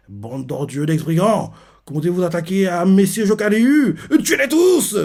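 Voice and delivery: monte de plus en plus haut jusqu'au cri final; un lieutenant furieux qui ordonne le massacre; cri de rage. Retold or imitated. (cri de colère imité, de plus en plus aigu)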